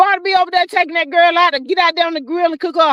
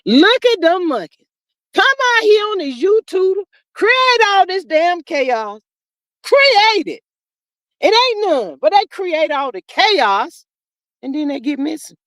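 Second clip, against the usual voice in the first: scolding rant; 4 semitones higher than usual. Retold or imitated. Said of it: "I said".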